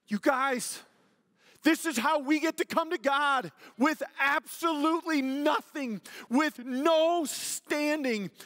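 high, loud preaching with heavily punched words; impassioned preaching. Real, not acted. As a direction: proclaim it at full force to the congregation.

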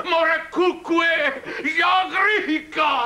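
slow, stretched-out call of the catchphrase; drawn-out shout. Acted. Husband shouting his catchphrase to the village, slow and drawn out. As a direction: bellow it out slowly like a village elder.

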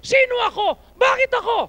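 high, loud whiny protest of Moses; wrong answer. Shown as a demonstration. Pastor acting Moses' wrong answer, loud and whiny. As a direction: act out the excuse you must not give.

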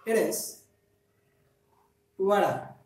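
it is and what are with linked tapped t; flap T drill. Shown as a demonstration. Teacher leading a repeat-after-me drill. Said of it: "repeat after me".

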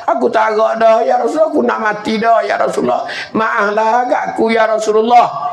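a hint of a dying woman begging her husband; dying wife pleading.

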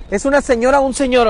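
normal talking voice

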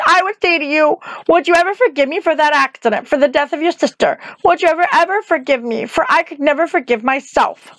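put-on pleading young Dorothy. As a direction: beg forgiveness like a child.

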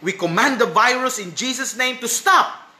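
commanding prayer. Retold or imitated. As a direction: imitate a bold prayer commanding a virus. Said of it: "many posts go about saying".

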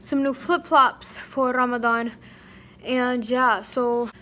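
breathless after shopping; out of breath. Real, not acted. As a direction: talk while catching your breath. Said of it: "oh my God, I'm out of breath".

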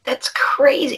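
breathy hushed that's crazy; hushed amazed aside; whispered awe. Real, not acted. Host reacts to download numbers.

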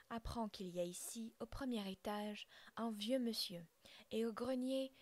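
colère plus forte, tirade furieuse; le père déverse sa rage; hors de lui. Acted. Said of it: "hors de lui". (le père merle fulmine contre son enfant)

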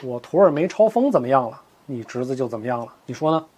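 a chilling reply that needs no volume; cold. Acted. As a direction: master answers a grieving rival coldly. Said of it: "黄药师冷冷地说".

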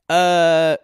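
soap-opera crying acceptance; mock sobbing reenactment. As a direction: overplay a reality-show breakdown through tears. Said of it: "And scene".

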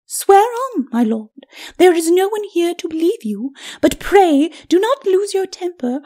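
high, taunting lady's voice; mock his temper with airy, high-pitched politeness; high, scornful ladyship. Lady's character voice.

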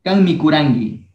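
Kan mikurangi with a voiced G sound, g as in gato. Shown as a demonstration. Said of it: "la pronunciación aquí es con la G de gato".

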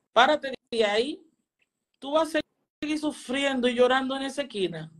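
a hint of stern fatherly reproach; Valen Yo. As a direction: imitate a dad ordering a child up. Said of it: "que me habló como un papá".

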